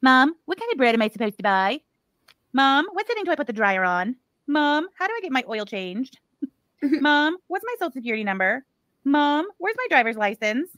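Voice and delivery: hammed-up needy kid pestering mom; whiny grown kid. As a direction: whine each Mom like a needy teen. Mocking grown kids asking mom.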